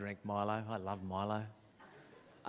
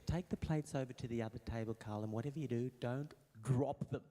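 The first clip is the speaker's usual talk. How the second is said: mum's warning. Retold or imitated. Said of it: "She'd go".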